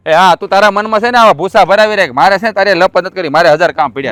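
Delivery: heated dismissal; angry. Acted. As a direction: snap back in scorn. Brothers quarrel over money.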